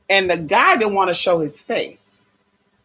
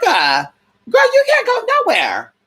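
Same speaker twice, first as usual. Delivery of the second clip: high shout; 13 semitones higher than usual. Retold or imitated. Yelling at her friend about no privacy, high shrieking disbelief.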